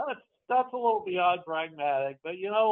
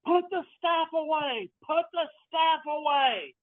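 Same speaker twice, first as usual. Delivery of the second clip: Orion; 10 semitones higher than usual. Acted. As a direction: call out urgently, pitched way up. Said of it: "Orion yells".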